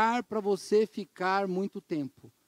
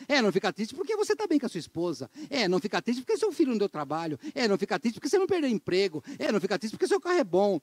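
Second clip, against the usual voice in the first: fast, sarcastic singsong of empty comfort; mocking advice; faster than usual. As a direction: rattle off the hollow advice mockingly. (imitando com deboche os conselhos vazios, rápido)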